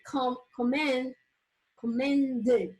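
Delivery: "commended" broken into its syllables; teacher splitting "commended" into syllables. Shown as a demonstration. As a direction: sound out "commended" part by part, ending on a separate "ded". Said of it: "I hope you understand that I say".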